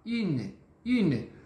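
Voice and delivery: "Une" with pouted lips around an "ee" sound; teacher modelling "Une", rounded front vowel; French U. Shown as a demonstration. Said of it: "o biquinho e o som do I".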